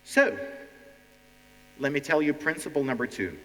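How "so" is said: high, loud attention grabber; loud call. Acted. Teacher calls class to attention.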